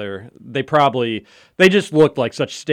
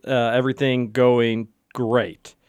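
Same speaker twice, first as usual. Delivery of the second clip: deadpan. Real, not acted. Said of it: "I can hear the excitement in your voice".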